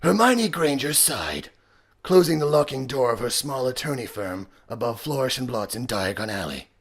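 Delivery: strained gravelly anime voice, trailing down; Vegeta. Shown as a demonstration. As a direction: read it as a straining action hero with bad American accent. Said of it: "Dragon Ball Z quotes from Vegeta".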